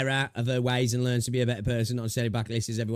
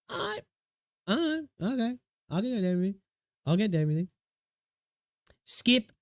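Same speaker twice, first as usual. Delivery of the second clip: grudging gamer; 9 semitones higher than usual. Retold or imitated. Imagined gamer reaction.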